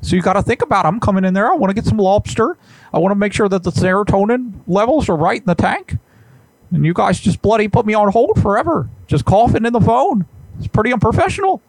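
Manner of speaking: a hint of an indignant professor; Jordan Peterson. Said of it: "this is Jordan B. Peterson".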